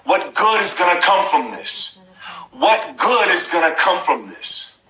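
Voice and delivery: like you truly believe good is coming; with passion. Shown as a demonstration. Host leads viewers saying the mantra, with passion. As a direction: say it with real passion and conviction. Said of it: "Say it with passion".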